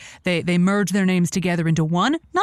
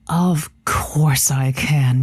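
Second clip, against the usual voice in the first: whispered pep talk; 5 semitones lower, much slower than usual. Acted. Psyching herself up to host.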